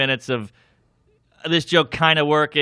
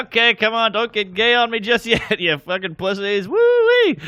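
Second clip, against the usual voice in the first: high, loud, ending in a shrieking woo-wee; comic goading the silent crowd, loud; hyped stage rant; 7 semitones higher, 3 dB louder than usual. Retold or imitated. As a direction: pump up a dead room, hammed up.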